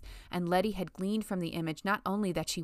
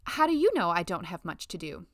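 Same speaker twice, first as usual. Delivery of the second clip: polite tone; 5 dB louder than usual. Acted. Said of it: "in the same polite tone".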